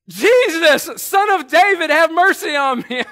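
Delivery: sudden full-force high shout; defiant yelling. Acted. Blind Bartimaeus crying to Jesus despite being shushed, acted full yell. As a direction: burst out loudly, ignoring the hush. Defies the hush, repeats the yell.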